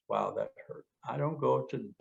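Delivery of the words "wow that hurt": calm acknowledgment. Shown as a demonstration. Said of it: "I simply acknowledge".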